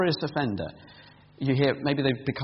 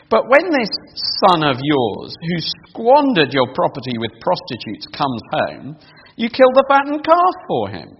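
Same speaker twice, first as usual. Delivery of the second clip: put-on older brother's outrage; 5 dB louder than usual. Older brother protesting to his father, indignant. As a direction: spit out the unfairness of it. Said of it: "he says".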